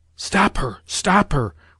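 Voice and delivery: slow, urgent, alarmed stage whisper full of dismay. Reading a novel aloud, the General urges someone to stop her: whispered in consternation. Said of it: "whispered the General in consternation".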